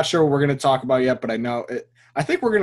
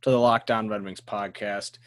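podcast sign-off; slower than usual. Acted. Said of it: "outro sign-off read".

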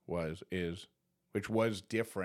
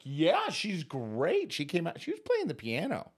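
mock reassurance; 8 semitones higher, 3 dB louder than usual. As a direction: fake calm to soothe his wife. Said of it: "for being like".

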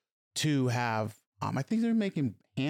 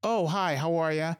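lightly imitating a polite, higher-pitched hello; polite greeting; 3 semitones higher than usual. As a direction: greet them courteously, pitch lifted at the start. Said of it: "you were very polite".

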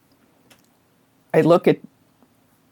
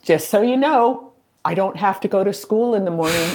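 higher-pitched, playful notice to the ghosts; acted announcement; 4 semitones higher than usual. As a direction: retell a bedtime heads-up, pitched up. Retells notifying ghosts at bedtime.

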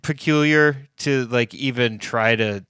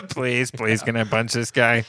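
mock begging. Voicing Mark begging his friend.

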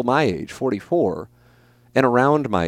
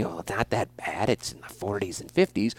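mock reassurance; 3 semitones lower, 10 dB quieter than usual. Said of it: "I will not have any".

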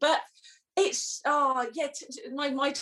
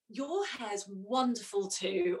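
slow, softer dry sarcasm; sarcastic compliment; 3 semitones lower, 5 dB quieter, much slower than usual. Retold or imitated. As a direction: drag it out sweetly and mean none of it. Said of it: "something really sarcastic".

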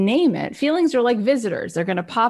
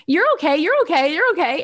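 dismissive soothing mother; 6 semitones higher, 4 dB louder than usual. Retold or imitated. Mother hushing her crying baby.

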